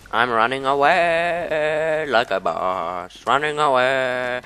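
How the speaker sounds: slow, singsong mock-heroic drawl; mock boast. Gamer jokes to viewers while fleeing, slow mock swagger. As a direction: play up a cowardly retreat as cool.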